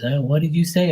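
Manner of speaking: high mock hard-of-hearing old aunt; deaf great-aunt. Deaf great-aunt asks the boy again, high mock voice. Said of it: "And she's deaf as shit".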